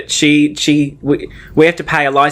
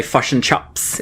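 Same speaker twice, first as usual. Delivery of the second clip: "fush and chops" in a low New Zealand accent; 4 semitones lower, 5 dB quieter, slower than usual. Shown as a demonstration. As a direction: Kiwi flattened vowels. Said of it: "someone from New Zealand would say".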